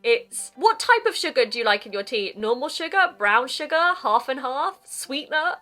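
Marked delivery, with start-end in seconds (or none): 2.4-5.6 high, eager hostess voice offering milk options; bubbly tea host. Retold or imitated. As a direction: chirp the options like an over-keen host. Host listing sugar choices.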